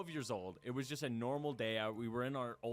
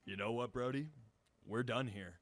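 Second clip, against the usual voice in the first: lower, matter-of-fact brush-off; cool dismissal; 4 semitones lower than usual. Acted. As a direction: break it off coolly, voice dropping. Dream budgie dumps his owner.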